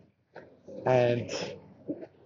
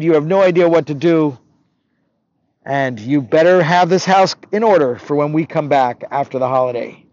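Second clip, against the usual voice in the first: stern, scolding orders, louder as they build; bossy orders; 4 dB louder than usual. Acted. Rich stepfather leaving the boy behind with chores, bossy. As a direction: lay down the law to an underling.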